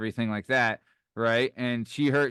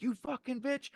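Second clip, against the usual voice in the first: much higher but softer, hissed-out insult; demonstrating the insult for the hosts; aggressive demo; 13 semitones higher, 7 dB quieter than usual. Shown as a demonstration. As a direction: show how nasty it sounded. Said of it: "You know, like that".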